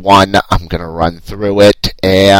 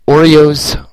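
whispered; 6 semitones higher than usual. Acted. Whispered product name.

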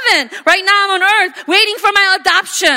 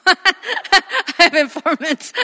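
slow, drawn-out laughing repeat; laughing slowly; much slower than usual. Real, not acted. Pastor repeats the joke, laughing slower. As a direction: stretch it out through a laugh.

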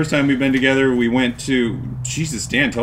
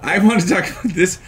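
giddy, laughing through it; bubbling over with excitement; giddy anticipation; 3 semitones higher than usual. Real, not acted. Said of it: "I'm giddy".

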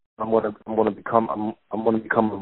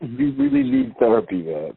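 mock scold; 14 semitones higher, slower than usual. Friend teases in put-on voice.

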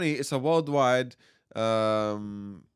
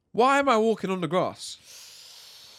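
whiny complaint; 7 semitones higher, slower than usual. Acted. Acted complaint about girlfriend.

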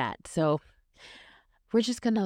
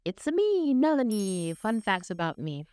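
segment intro; 4 semitones higher than usual. Pretend. Segment title jingle.

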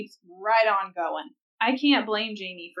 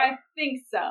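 laughing quote; 4 semitones higher than usual. Retold or imitated. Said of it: "And he's just like".

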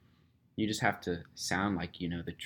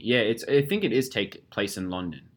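Cockney accent. Shown as a demonstration. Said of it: "You have a great Cockney accent".

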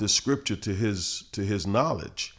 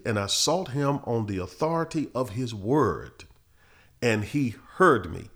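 slow, raised-pitch scripture reading, phrase by phrase; 4 semitones higher than usual. Real, not acted. Preacher re-reads the psalm to listeners, slowly and deliberately. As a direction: read it deliberately, lifting each key phrase. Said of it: "let me just read it again slowly".

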